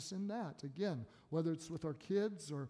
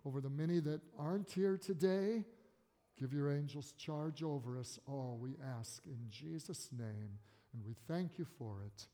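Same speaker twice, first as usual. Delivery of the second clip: leading prayer; 2 semitones lower than usual. Real, not acted. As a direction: pray aloud for the church, pausing between phrases. Leads the closing prayer.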